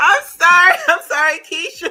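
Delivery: mock, high, loud yell through laughter.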